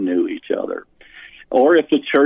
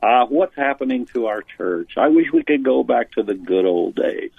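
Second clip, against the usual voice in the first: lightly whiny, wistful complaint; a hint of a whiny churchgoer. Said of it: "kind of with a whiny voice".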